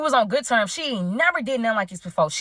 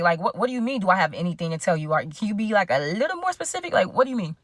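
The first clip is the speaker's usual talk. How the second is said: nervous stalling; 2 semitones lower than usual. Retold or imitated. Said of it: "My nerves was everywhere".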